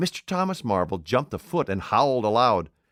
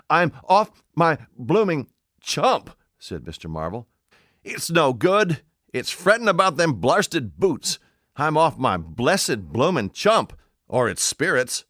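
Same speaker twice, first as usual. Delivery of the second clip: higher, slow and loud, a bewildered tramp; rattled old tramp; 5 semitones higher, 4 dB louder, slower than usual. A narrator's reading. Tramp Marvel to an unseen voice, bewildered and slow. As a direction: drag it out like a tramp losing his wits.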